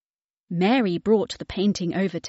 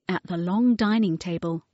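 ordinary delivery, nothing marked

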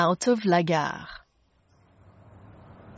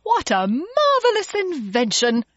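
high, delighted exclamation; excited cry; 10 semitones higher, 3 dB louder than usual. A narrator's reading. Mister Logan marvels at the hand dryer, excited cry. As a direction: soar upward in wonder at the invention. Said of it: "cried Mister Logan".

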